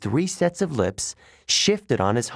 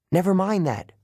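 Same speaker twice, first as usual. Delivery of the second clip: urgent; 8 semitones higher than usual. A narrator's reading. Grover urging them to go.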